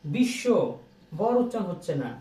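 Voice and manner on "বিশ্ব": "বিশ্ব" as bish-sho, with no second b; doubled sh. Shown as a demonstration. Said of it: "তালব্য স্বর উচ্চারণ হয়ে যাচ্ছে ডাবল".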